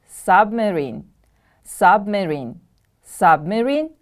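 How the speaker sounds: Submarine with SUB stressed; stress on first syllable. Shown as a demonstration. Teacher modelling a new word for pupils, first-syllable stress. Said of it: "The stress is on the first syllable".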